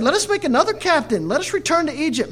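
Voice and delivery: rally the crowd back to Egypt; rebellious cry. Retold or imitated. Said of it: "And they said".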